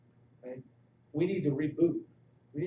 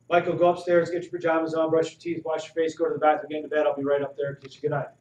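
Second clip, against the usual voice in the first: impatient bedtime orders; 6 dB louder than usual. Retold or imitated. Parent ordering kids to bed.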